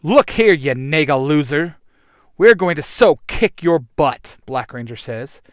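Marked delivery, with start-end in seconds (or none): 0.0-4.4 loud taunt. Acted. Hero taunts villain.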